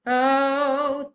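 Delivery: loud held "oh"; angry sustained oh. Shown as a demonstration. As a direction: tap into anger on one long vowel. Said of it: "tap into it".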